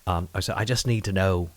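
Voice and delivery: put-on Irish accent. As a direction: ask for a verdict in an Irish brogue. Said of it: "how is my accent".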